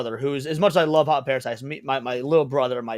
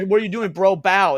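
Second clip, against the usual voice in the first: mock kid's command, higher and louder; imitating bossy daughter; 5 semitones higher, 5 dB louder than usual. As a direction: order him about like an exasperated child. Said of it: "she looked at me and she goes".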